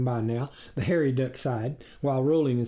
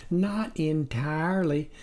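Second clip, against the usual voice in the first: comforting; 3 semitones higher than usual. Acted. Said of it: "comforted her husband".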